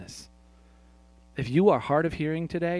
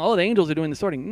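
quick, louder naive reading of the verse; mistaken reading; 4 semitones higher, 6 dB louder, faster than usual. Retold or imitated. Pastor mimics Kristen's mistaken reading, quick and louder. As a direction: read it the wrong way, brightly and fast. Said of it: "because the way you read it, it sounds".

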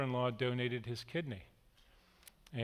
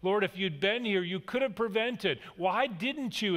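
higher, pointed question to Jesus; reproachful plea; 5 semitones higher than usual. Retold or imitated. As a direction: press him, why weren't you here. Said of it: "Martha comes first and she says".

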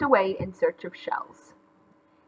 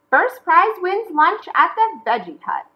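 high, loud put-on announcer voice; judge's announcement; 9 semitones higher, 5 dB louder than usual. Judge opening the sandcastle contest, announcing.

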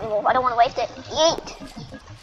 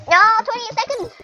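frustrated outcry; 6 semitones higher than usual. Real, not acted. Timer cut short in game.

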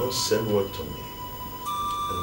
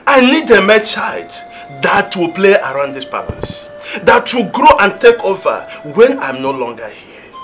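stern demand; 2 semitones higher than usual. Acted. King demanding a son.

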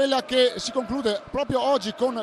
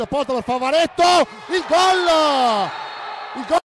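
building goal call; excited goal call. Real, not acted. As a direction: rise into the goal shout. Commentator calls a goal.

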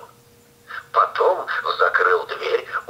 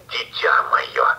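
whisper; 10 semitones lower, slower than usual. Acted. Wolf whispers low.

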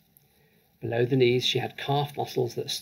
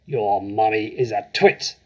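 bellowed insult; 4 dB louder than usual. Acted. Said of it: "the Trunchbull bellowed".

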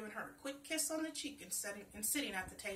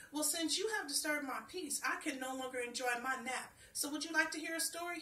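tree's offer; 4 semitones higher, 4 dB louder than usual. Acted. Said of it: "he asked".

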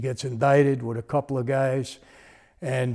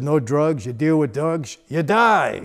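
firm, punched mock threat, louder on die; forceful warning; 2 semitones higher, 5 dB louder, slower than usual. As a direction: hammer home a boss's order. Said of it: "he said it very forcefully like that".

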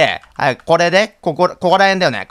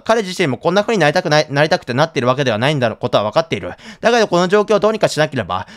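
diary reading. Acted. Reads diary entry aloud.

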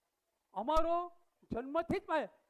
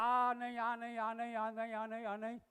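monotone run of rejections, fading away; repetitive running rejection; 3 dB quieter than usual. Acted. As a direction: rattle them off on one note, trailing away. Rejecting names one after another. (એકધારું બોલતાં ધીમું પડતું જવું)

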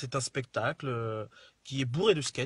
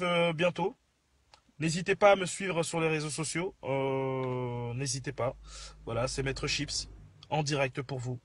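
Maître Chips voice; 2 semitones lower than usual. Acted. Stays in the Maître Chips persona.

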